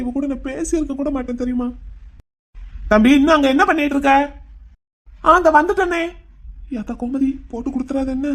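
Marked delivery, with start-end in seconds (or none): 2.9-4.1 louder call across the house; mother calling her son from indoors, louder. Acted. Mother calls from another room. 5.2-6.0 higher, louder call; calling back. Acted. Shouting back to mother.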